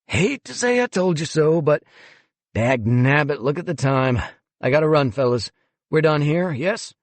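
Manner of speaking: breezy condescending boss on the phone; a hint of a smug museum director; smug executive.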